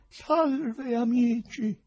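loud, high-pitched salute to a crowd; loud greeting. A narrator's reading. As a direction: hail them at full voice. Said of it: "disse forte".

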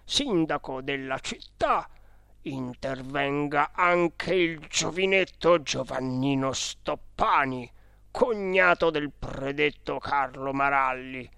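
stately official declamation of a legal document; formal will reading. Acted. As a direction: read out a testament in solemn, measured phrases.

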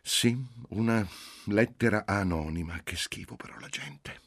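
high, disgusted confirmation; indignant. A narrator's reading. Indignant mother answers her daughter.

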